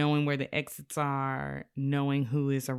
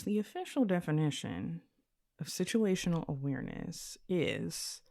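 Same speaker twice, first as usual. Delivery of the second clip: lightly nerdy textbook recital; nerd voice; 3 semitones higher than usual. Acted. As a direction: read it like a know-it-all. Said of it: "I'm gonna put on my nerd voice".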